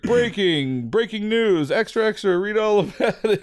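high, loud newsboy cry; rapid old-time reporter. Pretend. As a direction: shout it like an old-time paper boy. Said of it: "it's gonna be like".

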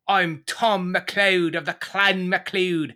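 bad Irish accent; a clumsy Irish lilt. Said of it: "that's Irish. That's bad".

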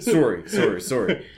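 repeated Canadian "SORE-ee"; Canadian "sorry" with a round "or" vowel; Canadian accent. Retold or imitated. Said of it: "Both Canadian, I believe".

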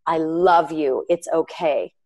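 gently retold comfort; understated, accepting tenderness; loving reassurance. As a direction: reassure without any judgment. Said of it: "It was just".

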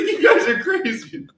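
high, loud, slow retold exclamation; mock incredulous outburst. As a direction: exclaim it in drawn-out disbelief. Retold exasperated punchline.

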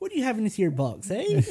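West Country officer, pitch soaring on eh; playful rural questioning; West Country accent. Pretend. Host keeps the West Country officer bit going, hammed-up. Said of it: "his West Country accent".

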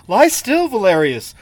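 a lightly voiced pleading young woman; begging girl. Girl tending the wounded soldier, lightly voiced pleading. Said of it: "begged the girl".

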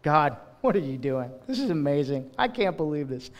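a soft, awed, reverent question; reverent wonder. Acted. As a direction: marvel at God quietly. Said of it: "with a little bit of reverence".

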